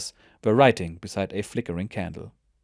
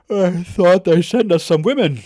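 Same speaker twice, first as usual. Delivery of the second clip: much higher and louder, teasing; mock high joking voice; 10 semitones higher, 8 dB louder than usual. Sleepy soldier teasing the new recruits, mock high voice. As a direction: squeal it like a joke. Just woke, yawning joke.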